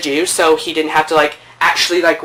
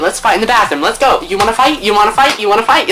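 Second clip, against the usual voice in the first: rapid-fire retold challenge, pitched up; higher, pushy, mock confrontational; extra; 5 semitones higher than usual. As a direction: act out an overexcited dare to fight. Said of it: "he was extra too".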